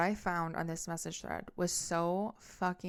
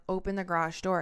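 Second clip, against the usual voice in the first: retold command, repeated more forcefully and louder; louder, firmer imitated order; insistent demand; 4 dB louder than usual. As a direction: press the demand after a refusal. Repeated demand after being refused.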